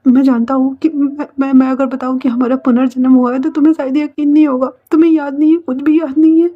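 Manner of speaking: urgent acted insistence; desperate explaining. Wangji desperately explains their rebirth.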